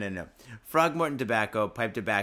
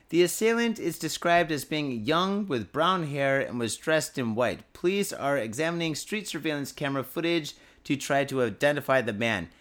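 news read. Acted. Reads news story aloud.

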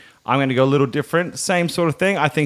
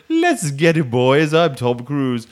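Tom Cruise impression; slower than usual.

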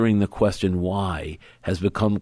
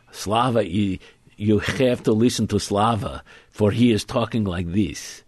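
light mock Slavic accent; a hint of thick Slavic accent; 2 semitones higher than usual. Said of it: "a very thick Slavic accent".

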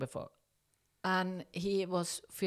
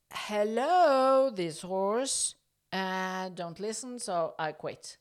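retold call; 3 semitones higher, 6 dB louder, slower than usual. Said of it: "I said to Fabio".

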